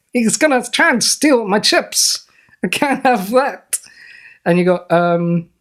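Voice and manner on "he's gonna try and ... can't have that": villain impression. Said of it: "that's not the end of the impression".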